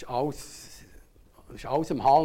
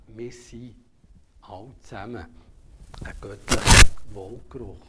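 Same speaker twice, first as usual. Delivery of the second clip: proclaimed loudly; 14 dB louder than usual. Shown as a demonstration. Preacher proclaims to the church, loud. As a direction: boom out the phrase, much louder. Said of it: "repeated key phrase, much louder".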